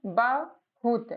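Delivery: बहुत stretched out slowly, syllable by syllable; slow sounding out. Shown as a demonstration. Teacher slowly sounding out बहुत for a learner. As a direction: draw out बहुत so a beginner can follow. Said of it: "कैसे पढ़ना है".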